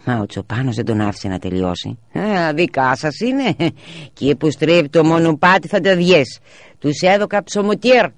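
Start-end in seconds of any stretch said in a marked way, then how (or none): 2.1-8.1 high, slow shepherd's voice; a village shepherd calling back cheerfully; rustic shepherd. A narrator's reading. Shepherd answering on the path. (αργή, ψηλή φωνή τσοπάνου που απαντά)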